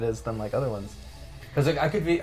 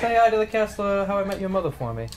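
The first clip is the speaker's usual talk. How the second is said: higher, fast sketch impression; Mark Wahlberg; 5 semitones higher, faster than usual. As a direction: parody the actor at a quick clip. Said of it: "Mark Wahlberg".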